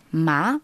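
second tone "ma", climbing like a question; Mandarin second tone. Shown as a demonstration. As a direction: lift "ma" upward, second tone. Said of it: "en deuxième ton".

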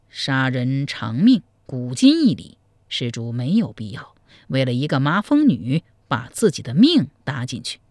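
a sly monk confiding gossip; old monk. Acted. Monk tells the groom about the bride, low and measured.

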